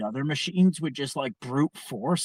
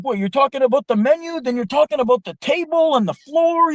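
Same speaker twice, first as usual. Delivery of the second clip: much higher, louder fast mock tirade; imitated angry rant; 13 semitones higher, 8 dB louder than usual. Italian co-worker berating the nonstop talker, loud mocking rant. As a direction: pile on the sarcasm at him. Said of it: "he finally lost it on Ron".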